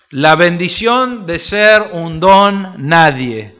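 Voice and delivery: drawn out, each word weighed; slow reverent reading; slow scripture reading. Shown as a demonstration. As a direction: read the verse slowly and solemnly. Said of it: "¿no es cierto?".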